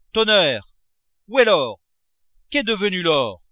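high, loud angry outburst; a miser roaring for his missing gold; furious shout. A narrator's reading. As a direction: roar for the lost gold.

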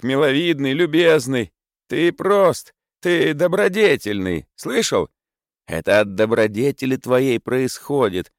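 put-on high, pleading drunken friend; pleading drunkard. A narrator's reading. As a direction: beg and fawn over Senya. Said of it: "умолял Зимовейкин".

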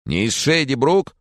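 put-on old man can't believe it; baffled question. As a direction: ask as if it cannot be true. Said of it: "и представить себе не может".

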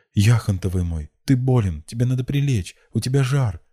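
high-pitched fussing concern; solicitous. A narrator's reading. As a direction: fuss over a sick sweetheart. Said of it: "заботливо начала Рассана".

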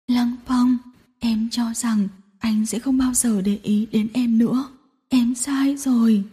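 soft, breaking confession trailing into a whisper; sobbing. Acted. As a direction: sob out the admission. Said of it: "nức nở". (nức nở nhận lỗi)

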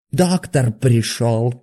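slow, drawn-out, jeering cry; mocking shout. A narrator's reading. Patient yells at the doctor who walks in, slow and jeering. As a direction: announce him like an enemy has arrived. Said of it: "крикнул он и захохотал".

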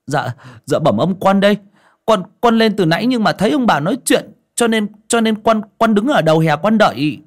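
bow and scrape as the servant; timid servant. Acted. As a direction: servant boy answers his master, fawning. Servant Nô speaking.

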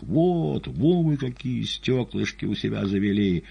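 high, strained cry of outrage; shouting. A narrator's reading. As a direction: cry out while struggling against the orderlies. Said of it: "кричал".

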